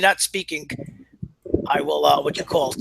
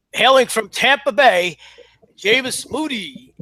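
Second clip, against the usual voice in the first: ring announcer; 4 semitones higher, 3 dB louder, slower than usual. Pretend. Wrestling ring announcer intro.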